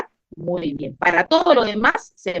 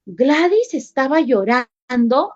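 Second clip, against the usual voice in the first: gasp, then a scandalized question; mock-shocked gossip with a rising finish; gossipy shock; 2 semitones higher than usual. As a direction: ask it like juicy gossip, stretching the repeat. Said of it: "cómo contaría ese chisme".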